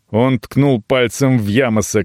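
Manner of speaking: plain reading voice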